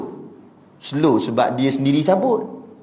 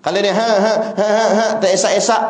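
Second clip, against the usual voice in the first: mock child crying; 6 semitones higher than usual. Shown as a demonstration. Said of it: "budak-budak menangis".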